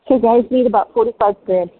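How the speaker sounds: hiccups breaking into speech; talking through hiccups. Real, not acted. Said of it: "I have hiccups this morning".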